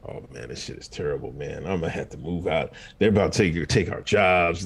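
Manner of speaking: low, soft, fast mock complaint; a glum Canadian grumbling about the lockdown; mock worried Canadian. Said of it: "I was like".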